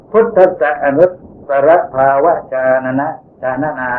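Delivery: "พุทธัสสะอนุตตรภาวะชานนะ" read with plain Thai sounds, not from the proper points of articulation; Thai-style Pali. Shown as a demonstration. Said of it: "ไม่ถูกแล้วนะ ... เป็นไทยชัดๆเลย".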